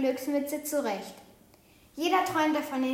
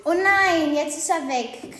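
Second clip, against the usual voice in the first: louder, alarmed raven cry on oh nein; excited croak; 3 semitones higher, 5 dB louder than usual. A narrator's reading. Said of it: "krächzt Osocke aufgeregt". (aufgeregtes Krächzen)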